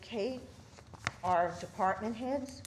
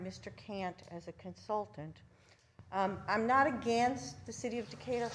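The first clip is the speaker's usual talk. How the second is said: muffled behind a face mask; through a face mask. Real, not acted. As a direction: speak through a cloth mask. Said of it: "can you hear me with my mask on".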